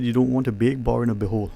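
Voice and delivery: rattled off quickly on purpose; said fast. Shown as a demonstration. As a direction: run the saying together fast. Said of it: "I said it fast, deliberately".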